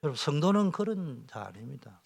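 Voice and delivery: ordinary talk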